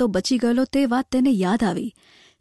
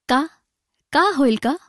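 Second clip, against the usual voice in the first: mildly anxious, eager question; eager asking; 3 semitones higher than usual. A narrator's reading. Old gardener asking Vinayak Rao for news, eagerly. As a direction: ask with restrained eagerness, lifting the question. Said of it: "આતુરતાથી પૂછ્યું".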